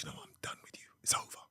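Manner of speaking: whispered, barely audible dismissal; hushed breakup. Retold or imitated. Girlfriend breaking up beside the stage, hushed whisper. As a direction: end it quietly under your breath. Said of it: "'Cause we're gonna be quiet".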